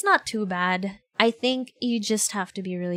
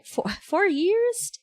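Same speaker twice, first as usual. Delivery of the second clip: laughing surprise; 10 semitones higher, much slower than usual. Real, not acted.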